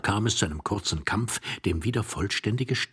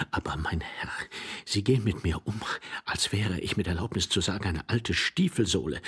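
pleading despair. Acted. Offended man imploring his rude companion under the bed, despairing plea. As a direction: protest meekly in a lowered voice. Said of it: "keuschesten Verzweiflung mit einer Stimme, zu flehentlichen Bitten".

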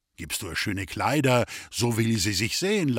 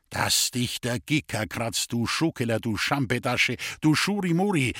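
angry. Acted. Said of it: "sagte der Blitzschwab zornig".

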